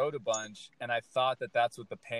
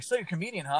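excited doctor; 5 semitones higher, faster than usual. Retold or imitated. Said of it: "He's all excited".

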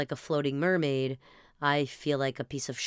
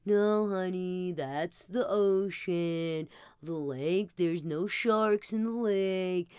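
consoling dad; 4 semitones higher, slower than usual. Retold or imitated. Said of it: "her dad's trying to console her".

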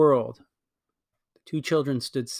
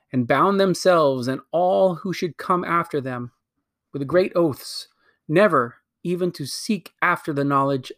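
lightly voiced imperious queen, bitter at her sister; a hint of a haughty queen, scornful; proud wicked queen. Queen justifies destroying her world, haughty.

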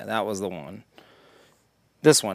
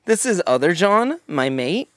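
mock chummy introduction, starting high; imitating dudes; 5 semitones higher than usual. Dude introducing other John, mocking. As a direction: play a dude presenting his pal. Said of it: "when dudes are like".

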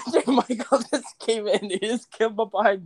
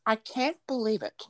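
Angela impression; 2 semitones higher than usual. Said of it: "do Angela".

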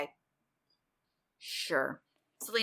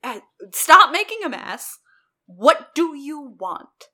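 loud, raised-pitch scolding in a mock Aussie accent; 4 semitones higher, 9 dB louder, slower than usual. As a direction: imitate an exasperated Australian telling someone off. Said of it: "In her Aussie accent".

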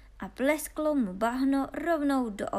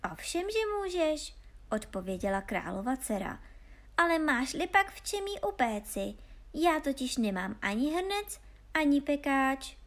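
higher teasing princess voice; playful princess; 5 semitones higher than usual. Acted. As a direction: tease him like an amused princess. (hravá princezna vyšším hlasem)

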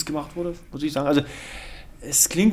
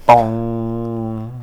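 imitated gong; 5 semitones lower than usual. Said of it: "Soll ich hier?".

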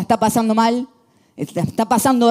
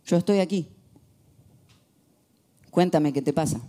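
tender mother; 4 semitones lower, 5 dB quieter than usual. Retold or imitated. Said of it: "tomando una idea mucho más pedagógica".

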